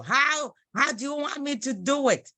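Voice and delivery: normal talking voice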